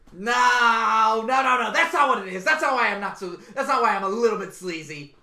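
loud, protesting wrestler; hyped-up wrestling star setting things straight; Seth Rollins. Acted. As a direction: shout down the accusation. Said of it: "Seth Rollins is coming".

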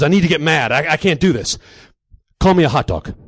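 loud, worked-up demand; insistent gym-bro psych-up; psyching himself up. Acted. Lifter demands to be insulted.

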